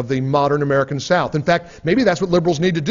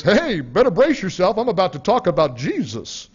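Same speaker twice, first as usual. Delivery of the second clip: lightly voiced Bible-thumping Southerner with a chuckle; half-laughing send-up of a Southerner about to preach; mock Southern preacher type. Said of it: "what they really hear is".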